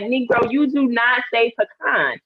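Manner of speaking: emphatic, put-on correction; mock scolding. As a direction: playfully call him out. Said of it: "And I'm like".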